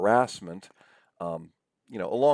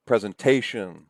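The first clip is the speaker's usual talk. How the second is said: presentation as pre-zen-TAY-shun; stress on third syllable; 6 dB louder than usual. Shown as a demonstration. Lecturer shows natural stress, presentation as pre-zen-TAY-shun. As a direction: punch TA in presentation. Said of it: "the stressed syllable is here".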